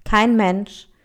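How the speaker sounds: expressive fairy-tale read-aloud; story narration. A narrator's reading. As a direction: read a fable aloud with lively character lines. Reads an African tale aloud. (Märchen vorlesen)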